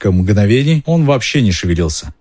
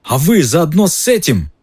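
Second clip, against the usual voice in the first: angry shout; 8 semitones higher than usual. A narrator's reading. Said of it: "крикнул он срывающимся голосом".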